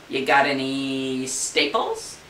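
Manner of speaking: slow, drawn-out cartoon duck. Duck asking the clerk for grapes, slow silly voice. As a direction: ask it like a dopey duck, slowly.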